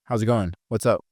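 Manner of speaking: even, mid-pitched casual greeting; buddy tone. Shown as a demonstration. Trainer demonstrating how buddies greet, even buddy tone. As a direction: greet an equal, neither up nor down. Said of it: "that's buddy".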